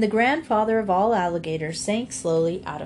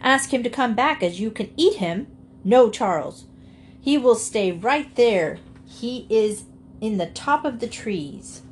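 firm refusal. Acted. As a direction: flatly refuse the alligator's request. Henrietta refuses the alligator firmly.

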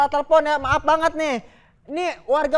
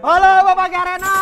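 loud, raised-pitch phone hello; calling out; 4 semitones higher, 5 dB louder than usual. Acted. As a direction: holler down the line to get through. (berseru lantang di telepon)

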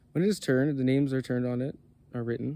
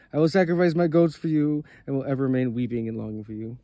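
louder, eager devotion, a simple shepherd pleading; a lightly voiced shepherd, earnest and louder; loving shepherd's prayer; 4 dB louder than usual. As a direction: pour out the offerings like a devoted herdsman. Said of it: "praying in loving words".

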